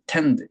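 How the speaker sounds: "tend" with the opening vowel nearly swallowed; unstressed first vowel. Shown as a demonstration. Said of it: "이렇게 강세가 없는 거". (첫 모음을 삼키고 "tend"에 강세)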